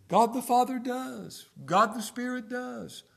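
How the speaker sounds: slow, loud, lifted preaching cry; a preacher crying out God's love; full-force preaching. Real, not acted. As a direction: proclaim it with fervour.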